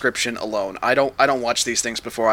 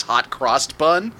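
dramatic line reading; much slower than usual. Retold or imitated. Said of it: "the actual line the actor says is".

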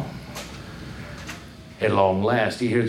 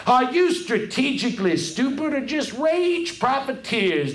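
losing temper; 9 semitones higher than usual. Acted. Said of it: "losing her temper".

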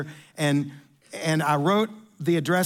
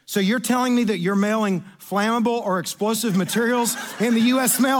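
building mock-stern interrogation; incredulous manager; 3 semitones higher than usual. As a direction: start measured, rise to higher disbelief. Manager incredulous at customer's mistake.

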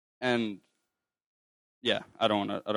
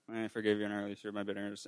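fast, soft, half-hearted recital; imitating a hurried, insincere apology; not genuine; 7 dB quieter, much faster than usual. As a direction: rattle it off quietly without meaning it. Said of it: "didn't feel like it was genuine".

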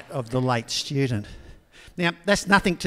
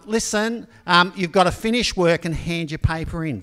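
raised voice for the deaf; 3 semitones higher, 5 dB louder than usual. Retold or imitated. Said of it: "was hard of hearing".

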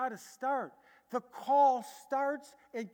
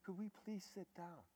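gentle soft answer; 2 semitones lower, 15 dB quieter than usual. Retold or imitated. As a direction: soothe an angry room. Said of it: "And I said".

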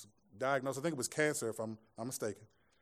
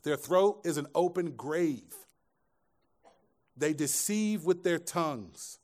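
scripture reading; 4 semitones higher, 6 dB louder, slower than usual. Acted. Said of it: "Look at this, verse thirteen".

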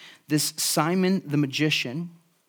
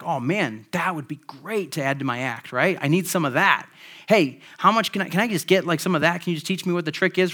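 eager Simon. Retold or imitated. Pastor voicing Simon begging to buy the power, eager. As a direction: play Simon hungry for the trick. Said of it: "He's like".

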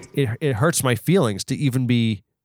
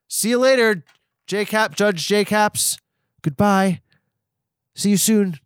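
a hint of a drawling cowboy; lightly voiced cowboy riding off; 5 semitones higher than usual. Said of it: "this cowboy voice that you did before".

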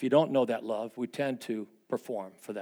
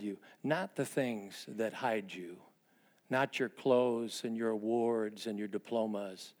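gentle Mister Rogers quote. Retold or imitated. Pastor recalling Mister Rogers, slow gentle tender voice. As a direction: say it tenderly like a children's TV host.

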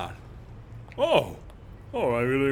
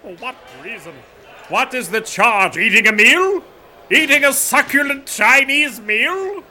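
crying with rage; 8 semitones higher, 6 dB louder than usual. Acted. Resisting arrest, indignant outrage.

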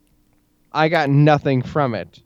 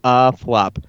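show host intro. Acted. Show intro over music.

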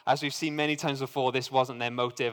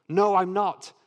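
higher and louder snap of denial; sharp retort; 6 semitones higher, 5 dB louder than usual. A narrator's reading. Peter denying to an accuser, sharp retort. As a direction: throw the denial straight back. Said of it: "Peter retorted".

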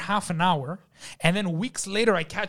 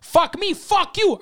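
high, loud retold retort; mock shouting back; 13 semitones higher, 5 dB louder, slower than usual. Waiter yelling back at the cook, mock shout. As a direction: fire it back in a hammed-up yell. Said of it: "I'm like".

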